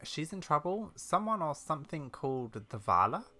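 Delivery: put-on young adventurer character. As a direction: deliver worrying news to the old lady.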